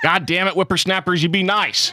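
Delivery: lightly voiced cranky old man; a hint of an old codger scolding; old prospector.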